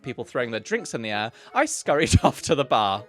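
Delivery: a hint of an old lady reading aloud; lightly voiced elderly lady. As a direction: keep the old auntie voice going. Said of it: "my elderly lady accent".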